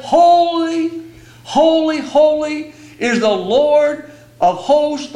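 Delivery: lifted, slow ringing proclamation of holy; proclaimed cry. Retold or imitated. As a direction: call it out like the seraphim crying to each other. Seraphim crying out, quoted.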